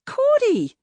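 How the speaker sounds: yelling. A narrator's reading. Chasing her through crowds.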